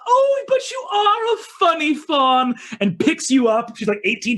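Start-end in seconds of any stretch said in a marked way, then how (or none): 0.1-2.5 high, loud laughing cry; laughing queen delights in her funny fawn; uproarious laugh. Acted. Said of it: "she laughs uproariously".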